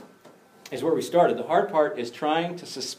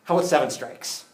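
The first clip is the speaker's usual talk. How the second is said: bargaining disciple; 7 semitones higher, 8 dB louder than usual. Acted.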